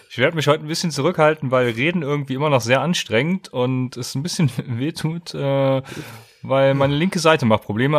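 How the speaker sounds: careful speech, sore jaw; after wisdom teeth. Real, not acted. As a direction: talk gently around a sore mouth. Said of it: "Reden ... wehtut".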